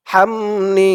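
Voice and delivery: হামনি with an airy হা; breathy ha. Shown as a demonstration. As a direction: breathe out the হা clearly. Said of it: "হা উচ্চারণ হবে".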